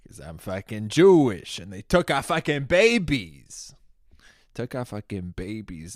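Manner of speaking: high, loud angry yell; furious outburst. Real, not acted. Comic ranting about the kidnapped babies, furious yell. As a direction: explode with outrage. Outraged rant punchline.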